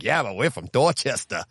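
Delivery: imitated thick Boston accent, R's dropped; thick Dorchester accent. Retelling the Dorchester couple's reply in a thick Boston accent. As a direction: do a Dorchester local, super-thick Boston vowels. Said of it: "it's super thick".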